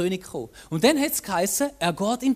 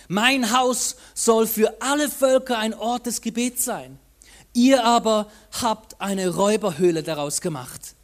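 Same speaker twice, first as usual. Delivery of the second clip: louder rebuke, ending firm; calling out; 4 dB louder than usual. Acted. Jesus rebuking the temple traders, loud and stern. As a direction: denounce them as a den of robbers. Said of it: "rief Jesus den Menschenmengen zu".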